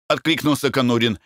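ordinary delivery, nothing marked

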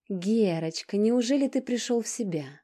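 high, loud, delighted cry; overjoyed. A narrator's reading. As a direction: greet him with sudden joy. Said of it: "обрадовалась она". (радостно, высоко и громко)

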